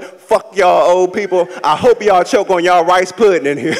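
hammed-up indignant comeback; imitating a slighted comic telling off the crowd; offended rant. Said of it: "I was like".

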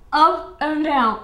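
slow it right down; slow demo. Shown as a demonstration. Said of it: "You go".

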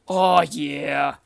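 loud happy oh yeah; a real loud cheer; excited cheer. Real, not acted. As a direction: cheer at the find. Finds lucky block.

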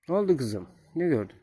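high, gentle cooing voice; talking to goslings. Real, not acted.

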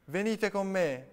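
high, loud, slowed shout. A narrator's reading. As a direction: call out to everyone, big and slow.

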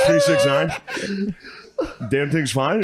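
high mock cop voice. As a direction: pitch it way up, mocking the cop. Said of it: "He goes".

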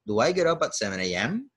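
"Do I get up at seven A M?" with the voice going up at "A M"; rising intonation. Shown as a demonstration. Teacher modelling the question tune for the class, rising. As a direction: end "Do I get up at seven A M?" on an upward swing. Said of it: "la entonación va rising intonation para arriba".

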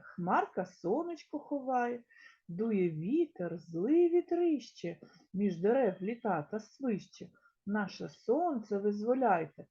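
put-on sing-song children's rhyme; rhyme recital. Teacher reciting a verse to young pupils, sing-song. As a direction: recite it rhythmically for the class.

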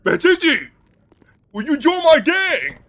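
high loud desperate plea; pleading. Acted. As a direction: beg Gigi to join. Pleading to Gigi.

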